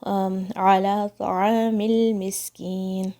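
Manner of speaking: slow عَلَى طَعَامِ الْمِسْكِينِ, سین clear and steady; slow model recitation. Shown as a demonstration. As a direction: recite it calmly in full. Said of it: "بغیر shake کرے ہوئے".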